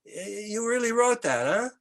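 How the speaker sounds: put-on a tough Montreal biker in a Québécois accent. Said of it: "I'm gonna use an accent".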